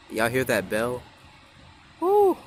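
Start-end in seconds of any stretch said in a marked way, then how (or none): 2.0-2.4 excited ooh. Real, not acted. Reacting to train bell.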